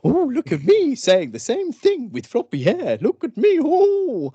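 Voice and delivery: high, silly mocking voice; mocking impression. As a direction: ham up a smug comedian. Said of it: "just start nodding your head and going like".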